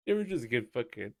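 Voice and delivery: usual speaking voice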